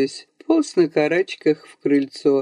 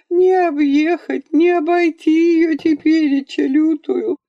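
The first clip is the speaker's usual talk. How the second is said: wailing lament; 9 semitones higher than usual. A narrator's reading. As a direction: wail it like a village mourner. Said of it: "завыла бабуша".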